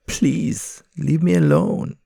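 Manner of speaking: high, loud, begging; pleading pigeon voice. Acted. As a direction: beg the voices to stop. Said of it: "his pigeon voice".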